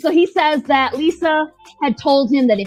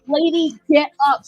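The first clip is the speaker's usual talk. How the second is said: high-pitched, exasperated urging; mock urging; 5 semitones higher than usual. Host to the fallen woman on screen, mock urgent plea. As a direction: urge her up in playful alarm.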